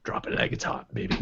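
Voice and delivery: whispered lyric. Pretend. Quoting song lyric playfully.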